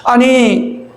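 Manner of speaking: mock-outraged complaint; indignant protest. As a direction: protest to the Lord, affronted. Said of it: "따지는 거예요".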